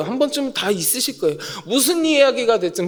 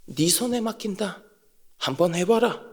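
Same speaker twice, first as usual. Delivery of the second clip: quiet permission; 4 semitones lower, 7 dB quieter than usual. Retold or imitated.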